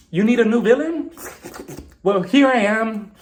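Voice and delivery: theatrical villain line, slowing at the end; Diana delivering her line. Retold or imitated. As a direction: imitate a big dramatic reveal. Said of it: "Diana finally delivered her line".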